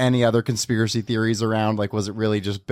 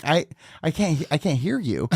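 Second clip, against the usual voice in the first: higher-pitched puzzled retort through laughter; mock confusion; 4 semitones higher than usual. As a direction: act baffled, half laughing. Retelling reply to whispering stranger.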